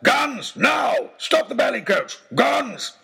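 high, loud, urgent bellows; frantic shouting. Acted. Oxshott yelling at the coachman to stop, frantic shout. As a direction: demand guns like a giddy madman. Baronet demands his shotguns.

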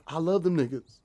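a mock white-girl voice; a touch of her voice; quoting a white girl in a passing car; imitating a white girl. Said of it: "the way you said that sounded weird".

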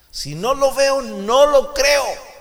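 loud, high, slow disbelieving voice; a stubborn doubter, shouted from the pulpit; doubting Thomas. Acted. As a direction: play Thomas refusing to believe. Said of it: "Tomás".

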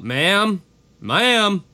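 calling ma'am with a light Southern twang, rising; a hint of a Southern drawl calling into the shop; calling out ma'am in a faint Southern accent; slight southern accent. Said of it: "I gave him a slight southern accent".

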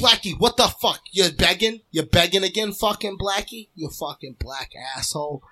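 mock scolding of a begging dog; imitated screaming. Imitating a family scolding their begging dog, mock screaming. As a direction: start with a yell, let it sink into grumbled abuse. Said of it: "they was just screaming".

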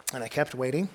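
usual speaking voice

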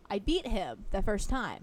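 "first time" drawn out for emphasis; stress on FIRST TIME. Real, not acted. Telling how they beat the customer, "first time" emphasized. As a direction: lean on the words "first time". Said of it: "emphasis on the word first time".

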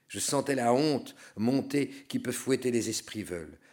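usual speaking voice

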